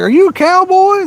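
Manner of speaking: high-pitched mimicked child; imitating kids. Kids online ask the gamer about his accent, imitated high. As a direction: put on an excited little kid's high voice. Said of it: "Them kids are like".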